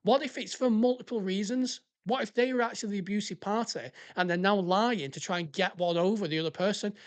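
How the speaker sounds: worked-up, indignant questioning; annoyed rant. Real, not acted. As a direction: rant through rhetorical questions, really annoyed. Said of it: "it fucking annoys me".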